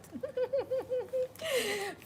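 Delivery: long high giggle. Real, not acted. Speaker about to start her list for God, long high giggle. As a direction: giggle high and keep it going.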